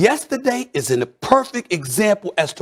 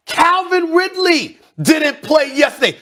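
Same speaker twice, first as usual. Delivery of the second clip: shout; 7 semitones higher than usual. Real, not acted. Host mocking Falcons roster to co-hosts, shouting. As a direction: yell it like nobody knows them. Ranting about Falcons receivers.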